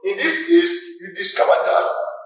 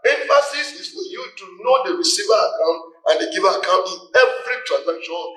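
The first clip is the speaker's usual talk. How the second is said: 1 emphatic reminder. Real, not acted. Teacher stresses key rule.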